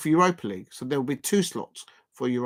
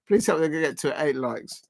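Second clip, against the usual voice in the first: ordinary talk, nothing marked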